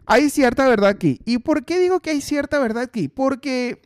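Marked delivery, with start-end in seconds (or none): 0.1-1.2 louder emphatic repeat. Real, not acted. Comedian conceding to the audience, louder emphatic repeat. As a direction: repeat "Hay cierta verdad aquí" louder, leaning on "cierta".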